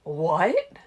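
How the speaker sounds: loud startled man's voice. A narrator's reading. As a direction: jolt in surprise. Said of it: "Emmett said, startled".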